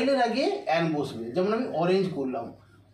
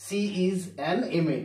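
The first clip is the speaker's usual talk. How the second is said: slow demo sentence; much slower than usual. Shown as a demonstration. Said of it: "আমি এখানে MA বললাম".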